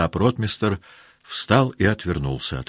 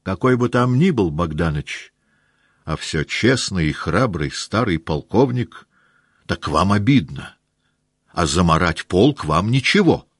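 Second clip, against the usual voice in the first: lightly voiced older officer, reproachful; indignant staff captain; 4 semitones higher, 4 dB louder than usual. A staff captain reproaching Rostov, mildly indignant. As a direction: scold the young officer with wounded pride.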